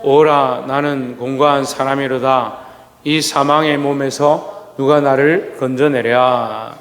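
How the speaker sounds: slow, solemn reading of the verse; scripture reading. Shown as a demonstration. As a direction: read the verse out slowly and deliberately. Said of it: "시작".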